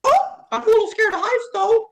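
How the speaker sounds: very high, loud squeaky cartoon. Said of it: "Cartoon voices".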